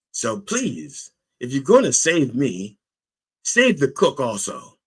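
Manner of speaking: acted-out entreaty; mild pleading. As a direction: plead a little, lifting the pitch. Acting the man begging God.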